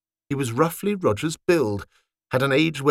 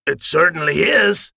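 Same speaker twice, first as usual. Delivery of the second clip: agreeing; 4 semitones higher, 4 dB louder than usual. Acted. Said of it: "agreed Richard".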